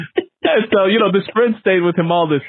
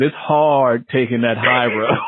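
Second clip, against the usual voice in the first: earnest quote; 3 semitones lower, slower than usual. Retold or imitated. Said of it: "she said".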